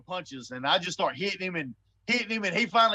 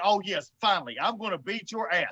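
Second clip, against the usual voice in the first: gleeful inner thought. Retold or imitated. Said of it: "I'm thinking".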